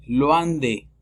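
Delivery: "loin" as nasal "lwan". Shown as a demonstration. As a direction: say "loin de" with a wa sound. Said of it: "La O con I es wa". (loin de con sonido wa)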